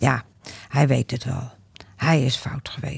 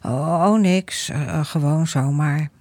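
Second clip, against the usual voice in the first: stammering. Acted. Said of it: "hakkelt Harmen".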